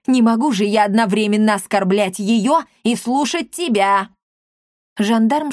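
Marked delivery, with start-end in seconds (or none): 0.1-4.1 exasperated. Acted. Old woman brushing off her son.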